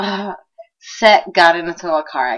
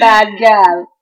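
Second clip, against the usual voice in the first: bad gal intro; 4 dB louder than usual. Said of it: "Did that sound cool?".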